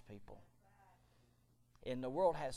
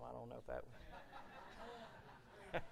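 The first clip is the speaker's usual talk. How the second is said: laughing; 2 semitones lower, 8 dB quieter, much slower than usual. Real, not acted. Joke about Louis's life.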